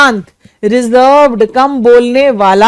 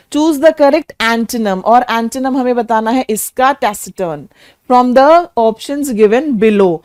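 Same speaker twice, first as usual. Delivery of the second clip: slow reading; slower than usual. Shown as a demonstration. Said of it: "reading the question".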